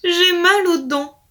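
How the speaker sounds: pitiful wolf. Acted. Old wolf complaining to the fairy about his teeth. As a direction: moan about the sore teeth. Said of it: "le loup piteux".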